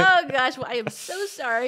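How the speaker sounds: playfully overdone embarrassment; flustered apology. Retold or imitated. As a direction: gush a mock-mortified apology. Retelling her embarrassed apology by text.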